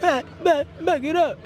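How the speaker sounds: high sharp shouts to back up; calling out. Real, not acted. Parent yelling from the sideline to back up. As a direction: yell at players to back it up.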